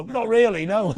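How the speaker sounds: sheepish backing down. Retold or imitated. Jeerers backing down.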